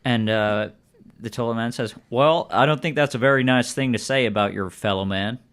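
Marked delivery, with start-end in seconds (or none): 2.1-5.4 lightly voiced Southern character; Southern accent. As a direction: give the townsman a Southern voice. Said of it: "I often default to Southern voices".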